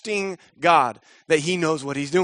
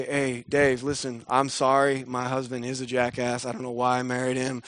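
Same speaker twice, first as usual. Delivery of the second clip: lower, softer calm plea; pleading gently; 6 semitones lower, 3 dB quieter than usual. Retold or imitated. Abigail calming David with food, lower soft plea. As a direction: talk him down softly. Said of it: "to David and say".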